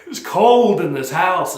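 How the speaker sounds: yawning through the words. Real, not acted. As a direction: say it mid-yawn. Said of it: "It's making me yawn".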